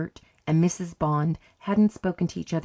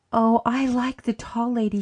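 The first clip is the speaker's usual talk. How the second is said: put-on higher, urgent child's protest; upset little girl, voice raised in pitch; gasping distress; 6 semitones higher, 4 dB louder than usual. A narrator's reading. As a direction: blurt it out, pitched up, close to tears. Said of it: "she gasped".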